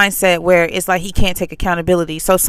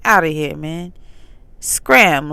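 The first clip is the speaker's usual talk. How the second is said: calm dismissal; 2 semitones lower, much slower than usual. Retold or imitated. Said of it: "say it nicely and calmly".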